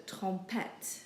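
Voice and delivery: TROMPETTE ending in a clear T; sounded final T. Shown as a demonstration. Teacher reading the next word, sounded T. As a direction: say TROMPETTE with the last T heard. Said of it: "so we pronounce the T's".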